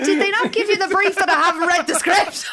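high laugh through the words. Real, not acted. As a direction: laugh while admitting it. Laughing at own confession.

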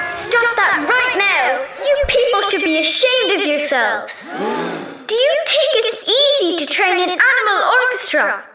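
scolding. Acted. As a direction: tell the crowd off. Maddie scolds the crowd.

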